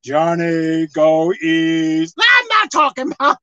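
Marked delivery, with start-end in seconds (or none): 0.0-2.2 mock voice in the head. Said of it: "hearing some voice in your head saying".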